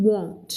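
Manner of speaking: WON'T with a rounded O sound; rounder vowel. Shown as a demonstration. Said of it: "เสียงมันจะกลมกว่า".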